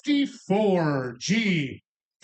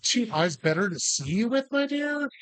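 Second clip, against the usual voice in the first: "my dear?" rising high like the wolf playing grandma; lightly voiced wolf posing as granny; 4 semitones higher than usual. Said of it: "supposed to be in the wolf pretending to be grandma's".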